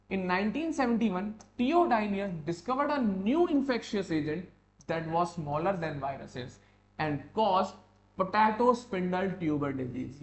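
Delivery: slow, measured dictation; careful classroom reading; textbook read-aloud. Real, not acted. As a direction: read the notes out deliberately for the class. Reads textbook lines aloud.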